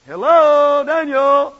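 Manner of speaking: loud, high call down into the pit; king hollering for Daniel. Retold or imitated. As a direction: shout into the den. King calling into lions' den.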